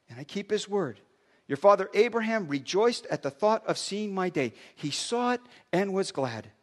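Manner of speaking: measured, earnest Bible reading; scripture reading. Acted. Pastor reading Jesus' words to religious leaders, earnest reading. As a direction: read the Gospel aloud to the congregation.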